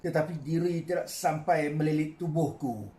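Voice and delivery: measured poetry reading with long pauses; poem recitation. Acted. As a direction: recite line by line, letting phrase endings fall. Poet recites own poem. (deklamasi sajak yang tenang)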